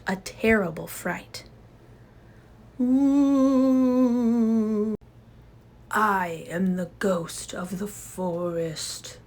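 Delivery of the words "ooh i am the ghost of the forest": eerie ghost whisper. Acted. Jane as the second ghost frightening Papa with a whisper.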